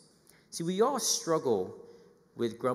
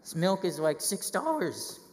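higher, louder mock indignation; griping about prices; 5 semitones higher, 3 dB louder, slower than usual. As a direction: complain about milk at six dollars. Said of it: "sitting at the milk window just like".

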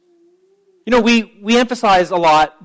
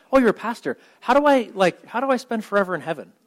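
higher-pitched, eager seatmate voice; imagined eager question; 4 semitones higher, faster than usual. Pretend. Stranger on a plane asks the pastor about heaven, eagerly. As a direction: play a curious stranger asking, pitched up.

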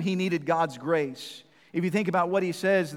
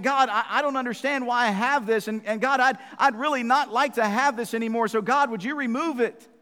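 imitating Paul's plea; 5 semitones higher, 4 dB louder than usual. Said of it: "Paul was saying".

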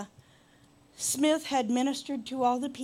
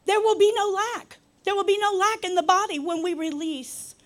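higher, louder pulpit declaration; raised preacher's voice; emphatic preaching; 7 semitones higher, 7 dB louder than usual. Real, not acted. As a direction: proclaim it to the whole church. Preaches the point home.

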